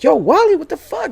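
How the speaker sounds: high mock-frantic call, loud at the start; retold yell. Snapping Wally out of a trance, high retold shout. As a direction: shout a friend awake, replaying it.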